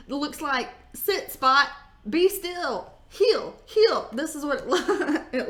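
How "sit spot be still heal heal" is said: dog commands. Pretend.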